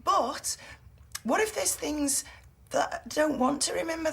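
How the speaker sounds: defensive protest. Acted. Defends herself about lost memory.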